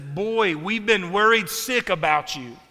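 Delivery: a light Southern mother's scolding; hint of a Southern mama scolding her boy; Southern mom. Mary in Southern, lightly accented scolding. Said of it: "translate the original language into Southern".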